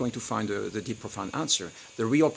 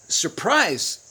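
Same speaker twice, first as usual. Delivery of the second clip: mock surprised gasp; 7 semitones higher, 6 dB louder than usual. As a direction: gasp high and loud. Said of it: "and she's like".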